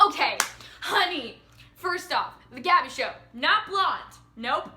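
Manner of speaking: mock-sassy retort, pointed and broken into pieces; sassy correction. Correcting teens who mistook the Gabby Show, sassy. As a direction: put them straight, one punchy phrase after another.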